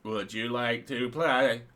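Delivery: slow, put-on sinister voice; movie villain quote. Host quoting a film line to the chat, slow and sinister. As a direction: creep it out slowly like the film.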